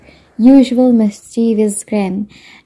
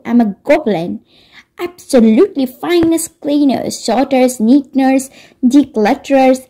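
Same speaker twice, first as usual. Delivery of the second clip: indignant goblin; 3 semitones higher than usual. Acted. Goblin character speaks indignantly.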